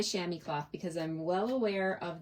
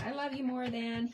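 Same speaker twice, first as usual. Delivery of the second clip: seagull shouting; 6 semitones higher than usual. Retold or imitated. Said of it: "It's like he's shouting".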